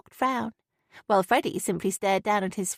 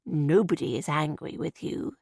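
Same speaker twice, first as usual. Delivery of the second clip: patient; 5 semitones lower than usual. Acted. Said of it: "Graham said patiently".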